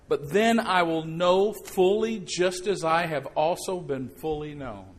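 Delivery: slow, deliberate reading of the verse; preacher reading the verse to the congregation; scripture reading. Acted. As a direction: read it out with weight, word by word.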